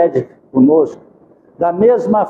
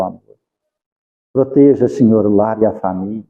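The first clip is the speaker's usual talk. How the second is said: prayer; 5 semitones lower than usual. Acted. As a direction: pray gently over the families. Leads closing prayer.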